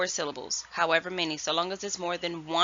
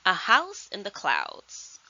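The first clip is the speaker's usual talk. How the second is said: read-aloud title; 3 semitones higher, slower than usual. Shown as a demonstration. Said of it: "Starting with the title".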